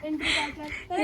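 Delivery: short laugh at being teased; amused burst of laughter. Real, not acted. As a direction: laugh briefly at the teasing. Laughing at bride entry teasing.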